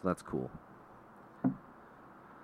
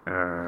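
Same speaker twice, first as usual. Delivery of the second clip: short mock growl; imitated dog growl; 4 dB louder than usual.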